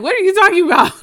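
high, loud disbelieving squeal; incredulous retort. Retold or imitated. Mom squealing back at the nervous dentist in disbelief. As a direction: shriek it in disbelief at him.

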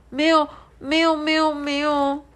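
put-on high, hurried child's no-no-no; 害怕地否认; frightened denial. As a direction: insist nothing happened. Frightened child denies, shaking head.

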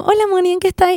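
lightly mimicked friendly greeting; friend's greeting. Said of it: "una amiga y me dice como".

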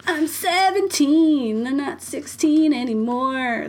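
put-on high, slow whiny teen protest; whiny teenager voice. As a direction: drag it out like a sulky teen. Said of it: "that she does this, like, whiny voice all the time".

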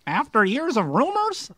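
attempted British accent. Shown as a demonstration. Guest reading an article to prove his British accent, badly faked. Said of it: "in your British accent".

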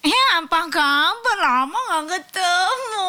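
high, slow flirty coo; femme fatale. Shown as a demonstration. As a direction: purr the greeting like a seductress. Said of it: "gimana sih suara manja?".

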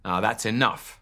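mild hero shout. Acted. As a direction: call it out like a stern superhero. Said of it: "shouted Supertato".

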